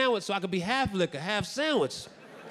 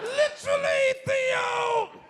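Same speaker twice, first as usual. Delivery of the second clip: very high pitch, name dragged out long; 3 dB louder than usual. Mid-story, you notice that you sound a little like someone famous; break into a Bill Cosby impression. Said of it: "Sounds like Bill Cosby a little bit".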